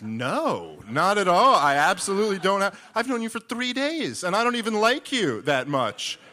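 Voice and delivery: high, loud exasperated refusal; exasperated shout. Retold or imitated. Refusing John, exasperated outburst.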